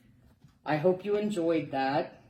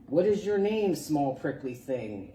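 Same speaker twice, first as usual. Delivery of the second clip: unkind; 4 dB louder than usual. Acted. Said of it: "asked the rhinoceros unkindly".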